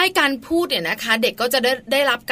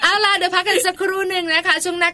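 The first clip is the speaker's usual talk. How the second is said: laughing; 6 semitones higher than usual. Real, not acted. Wrapping up while still laughing.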